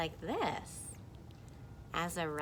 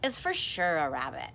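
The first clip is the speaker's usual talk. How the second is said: confident second character; 4 dB louder than usual. Acted. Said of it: "And this person says".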